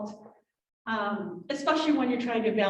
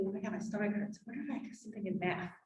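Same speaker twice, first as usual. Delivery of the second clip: put-on 1 kid noticing; 10 dB quieter, faster than usual. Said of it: "then they can go to".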